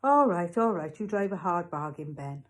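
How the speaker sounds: loud giving in, then settling down; concede, then pitch an absurd bargain; haggling shopkeeper. Acted. Raj haggles with Ben.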